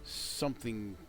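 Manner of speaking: lightly paced descriptive narration; game master scene setting. A narrator's reading. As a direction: set the scene, steady and evocative. Describes the dragon's cavern.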